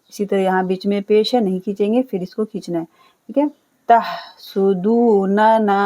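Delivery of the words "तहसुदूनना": slow recited word; Quran recitation. Shown as a demonstration. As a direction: chant the word slowly. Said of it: "ना को खींचना है".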